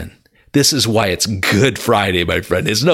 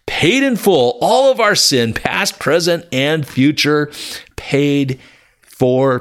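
much higher, ringing out; exultant climax; 5 semitones higher than usual. Real, not acted. Preacher crying out that all sin is paid, exultant and high. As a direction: soar up in joyful triumph.

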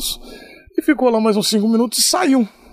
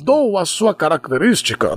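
mock scripted delivery, dropping lower; imitated reading intonation; 4 semitones lower than usual. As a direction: finish the line as if reading it out. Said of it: "ele mudava a entonação".

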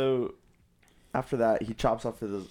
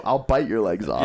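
mock threat; 7 dB louder than usual. Knight's threat acted out.

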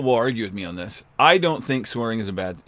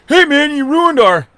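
high, slow, whining mock complaint; mock the kid's whine, pitched up; high whining protest; whiny young neighbor; 13 semitones higher, 7 dB louder, slower than usual. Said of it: "he's like".

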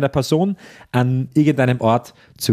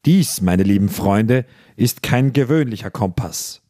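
deep voice. Acted. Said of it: "begann er mit tiefer Stimme".

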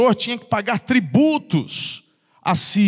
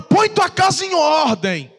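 stern prophet; 5 semitones higher than usual. Retold or imitated. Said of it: "ele fala".

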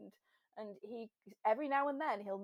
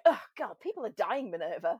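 mock exasperated; 6 dB louder than usual. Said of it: "we just go".

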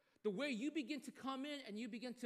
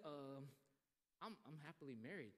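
hesitant refusal; 6 semitones lower, 10 dB quieter than usual. Retold or imitated. Mentor declining quietly.

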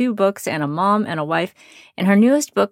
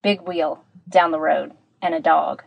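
tin can sound. Real, not acted. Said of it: "so it sounds a bit like I'm in a tin can".

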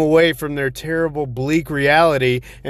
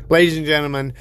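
ringmaster; faster than usual. Acted. Announcer opening again.

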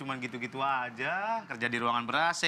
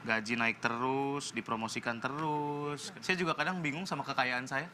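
casual boastful tone; 4 dB quieter than usual. Acted. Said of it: "Bapak bahasanya tuh tinggi, cuma nadanya santai gitu".

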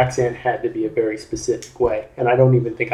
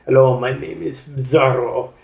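slow, lightly voiced mock Spanish accent; cheesy Spaniard accent. Shown as a demonstration. Showing how they voiced Zorro, in a slow cheesy Spaniard accent. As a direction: drawl it like a corny Spanish hero. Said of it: "that really kinda cheesy Spaniard accent".

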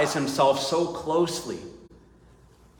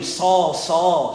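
louder, urgent calling of the name; 3 semitones higher, 5 dB louder than usual. Acted. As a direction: call Saul by name with force. Preacher repeats the divine call.

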